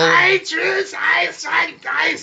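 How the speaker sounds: very high, loud shouted German voice; German voice yell. Pretend. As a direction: bellow it like a mock German orator. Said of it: "use your German voice and really yell".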